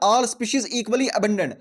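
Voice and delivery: slow, deliberate dictation. Shown as a demonstration. Teacher dictating definition to students, slowly. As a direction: let them write each word.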